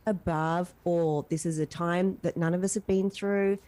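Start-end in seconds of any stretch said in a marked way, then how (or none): 0.1-1.3 slow, weighted "Love above all."; earnest heartfelt slogan; sincere motto. Real, not acted. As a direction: say it slowly like a creed. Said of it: "You know what?".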